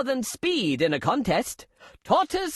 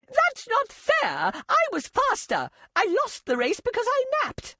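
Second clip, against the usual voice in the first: sulky Hare; 9 semitones higher than usual. Acted. Hare complains after losing.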